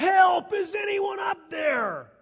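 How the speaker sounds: high, loud shouting. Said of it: "he yells".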